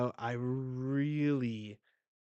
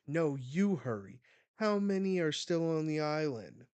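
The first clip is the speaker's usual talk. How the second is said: raised, higher voice, urgent comeback; urgent retort; 5 semitones higher, 5 dB louder than usual. Retold or imitated. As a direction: act out a pressing battlefield demand, louder. Garp snaps back in battle.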